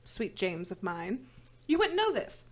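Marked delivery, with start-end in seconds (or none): 0.0-1.3 slow, softer mock-sweet; syrupy sarcasm, slow; sarcastic sweetness. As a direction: drip fake sweetness. Sarcastic pet name.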